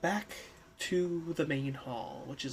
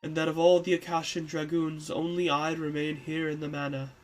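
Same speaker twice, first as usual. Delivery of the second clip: put-on old man voice.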